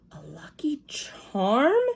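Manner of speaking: slow breathless whisper; hushed echo. A narrator's reading. Lucille whispering back about the lucky charm. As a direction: whisper it as if it's a secret.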